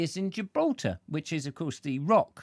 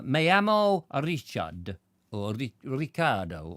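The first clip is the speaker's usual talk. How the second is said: schoolboy Spanish; 2 semitones lower than usual. Shown as a demonstration. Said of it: "I did Spanish at school".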